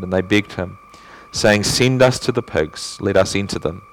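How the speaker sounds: even, measured reading aloud; scripture reading. A narrator's reading. Preacher reading the Gospel to the congregation, scripture reading. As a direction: read the verse out steadily. Reads the Bible passage aloud.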